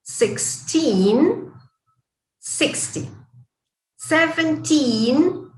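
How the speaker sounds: put-on thirteen stressed on teen, thirty stressed on thir. Shown as a demonstration. Teacher repeats the drill with students, contrastive stress. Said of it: "¿Lo practicamos una vez más?".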